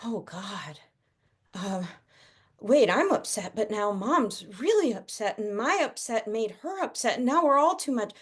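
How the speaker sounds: put-on panicky child. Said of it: "The panic doesn't rise up in the child and go".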